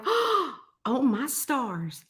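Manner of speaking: slow, drawn-out marvelling; acted amazement. Retelling her first sight of a kitten, amazed. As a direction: stretch each word out in wonder.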